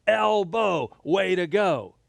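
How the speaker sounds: put-on upbeat playful cheer for kids. Shown as a demonstration.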